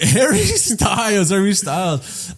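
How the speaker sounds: laughing, hammed-up British accent; mock British accent. Introducing himself as a British pop star, mock British accent. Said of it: "I'll get a British accent".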